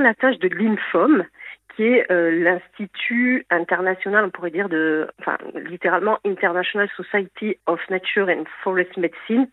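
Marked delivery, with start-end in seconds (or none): 6.2-9.5 English name read in a heavy Gascon French accent. Real, not acted. Guide reading an English institute name, Gascon-accented English. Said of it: "Pardon pour mon accent anglais".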